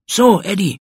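high, loud, fed-up address; angry declaration. A narrator's reading. Pauli ends friendship after fight.

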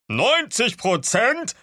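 very high, loud, drawn-out outcry; shrieked disbelief. Acted. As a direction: cry it out in disbelief. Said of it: "schrie Katzenkissen".

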